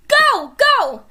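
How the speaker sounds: high, loud frantic yell; urgent shout. Acted. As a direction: shout at her to run. Fleeing a huge dinosaur.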